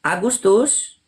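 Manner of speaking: talking around a cigarette; cigarette in mouth. Real, not acted. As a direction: smoke between words. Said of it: "saya sambil merokok ya".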